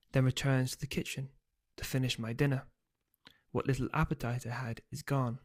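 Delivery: storyteller reading a chapter; calm audiobook narration; story narration. A narrator's reading. Author reads novel aloud.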